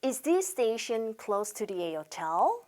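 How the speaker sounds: slow, "close" with s, "this station" linked; correct model reading. Shown as a demonstration. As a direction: repeat it for learners, s not z in "close". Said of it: "그렇게 발음하셔야 됩니다".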